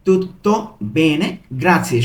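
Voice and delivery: slow "tutto ... bene, grazie", word by word; broken into pieces. Shown as a demonstration. Teacher breaking up Italian for learners, word by word. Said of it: "ভেঙে ভেঙে পড়ছি".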